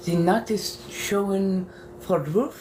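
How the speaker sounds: slow careful German, "Nacht" rising; carefully sounding out German words; practicing a German line in character; German accent attempt. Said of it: "trying to keep this accent".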